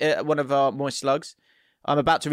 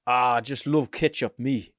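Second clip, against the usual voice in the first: put-on Sunderland accent; 4 semitones lower than usual. Host retrying the accent after struggling, Sunderland accent. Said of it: "That was better".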